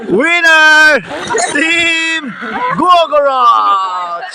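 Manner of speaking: crown the champ like a ring announcer; winner announcement. Acted.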